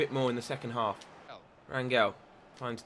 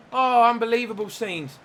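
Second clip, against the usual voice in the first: excited disbelief; 7 semitones higher, 5 dB louder than usual. Real, not acted. After the chance against the post.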